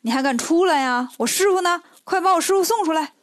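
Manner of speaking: rising angry call, growing to a shout on the last line; Monkey King, furious, demanding his master back. Acted. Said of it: "孙悟空一见他这个气呀".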